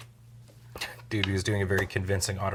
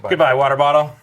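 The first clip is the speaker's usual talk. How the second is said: playful farewell; 6 semitones higher, 15 dB louder, faster than usual. Real, not acted. Playfully moves bottle, loud.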